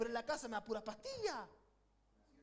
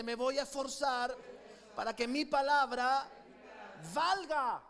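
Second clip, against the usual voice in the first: louder, slower declaration; 7 dB louder, slower than usual. Shown as a demonstration. Pastor urging the church to say it loud, shouting. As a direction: proclaim it with full force. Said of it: "Vamos, dilo fuerte".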